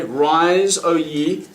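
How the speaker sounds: light mock old English incantation; old English accent. Shown as a demonstration. Magician teaching viewers the call, lightly old English. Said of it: "Give it a bit of a riffle like this and say".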